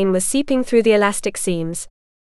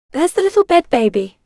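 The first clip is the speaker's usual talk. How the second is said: higher, teasing mockery; grinning taunt; 6 semitones higher than usual. A narrator's reading. Sister swaying into her brother's room, grinning taunt. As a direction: tease with an audible grin. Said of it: "Alyssa grinned".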